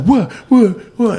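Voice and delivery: high, loud startled questions; startled retort. Retold or imitated. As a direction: imitate someone jolted awake, firing questions. Retells startled woman woken up.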